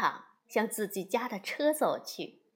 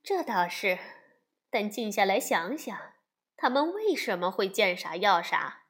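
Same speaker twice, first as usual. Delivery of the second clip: calm mother; 2 semitones lower than usual. Acted. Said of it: "熊妈妈平静地喝着茶，说道". (熊妈妈平静地劝熊爸爸)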